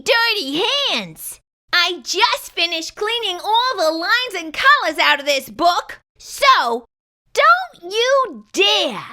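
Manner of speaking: lightly voiced annoyed shadow figure; fussy character voice. Character scolding the kid who touches his book, mildly cranky.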